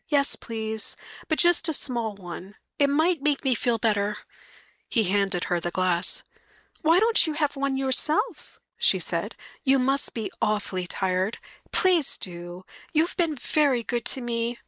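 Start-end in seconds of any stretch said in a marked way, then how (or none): 0.1-4.2 light wife voice, politely asking; lightly voiced wife. Mary accepting whiskey. 6.8-14.6 light wife voice, politely asking; lightly voiced wife. Mary urging the sergeant.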